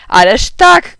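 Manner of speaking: loud, high exclamation; excited shout. A narrator's reading. Guest jogging dad's memory of school pranks, shouted. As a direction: cry out an emphatic agreement. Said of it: "krzyknął pan Labier".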